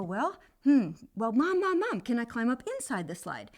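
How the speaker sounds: put-on hopeful kid trying again; child asking mom. Boy asks mom again.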